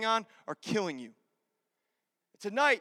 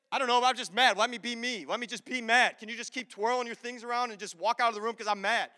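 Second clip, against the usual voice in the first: mock grumpy outburst; 3 semitones higher than usual. Retold morning spat with wife.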